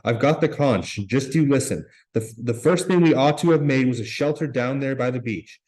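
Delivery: Piggy, lightly voiced, berating the older boys; losing his temper. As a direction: let Piggy's anger burst out. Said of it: "and Piggy lost his temper".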